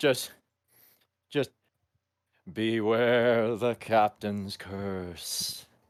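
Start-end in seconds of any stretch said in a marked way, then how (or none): 2.5-5.6 eerie spectral voice seeming from everywhere and nowhere. Doing the voice just described, the speaker says it in an eerie ghostly voice. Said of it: "effectively an eerie, ghostly voice that's just coming from everywhere".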